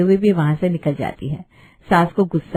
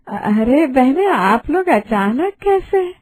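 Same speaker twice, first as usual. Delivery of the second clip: higher, slow, sugary pretend astonishment; fake surprise; 5 semitones higher, slower than usual. Mother-in-law pretending surprise at her friends' visit, slow and sugary. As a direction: ham up the surprise for the guests. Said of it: "एकदम से acting चालू".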